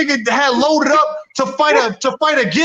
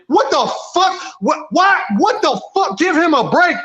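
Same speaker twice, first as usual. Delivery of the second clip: much higher, disbelieving; incredulous outrage; 6 semitones higher than usual. Real, not acted. Ranting back at Fury fans, high-pitched disbelief. Outraged retort to fans' excuse.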